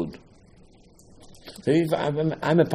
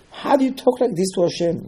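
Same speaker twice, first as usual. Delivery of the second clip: higher, incredulous challenge; indignant objector; 7 semitones higher than usual. Retold or imitated. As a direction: ask it as a shocked critic would. Objector challenges Avraham, voiced aloud.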